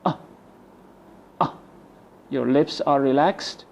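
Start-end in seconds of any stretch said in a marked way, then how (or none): 0.1-1.5 schwa grunt. Shown as a demonstration. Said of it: "In one breath out".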